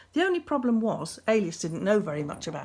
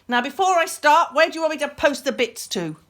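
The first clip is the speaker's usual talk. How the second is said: menacing beast; 7 semitones higher, 9 dB louder than usual. A narrator's reading. Beast threatens Meredith.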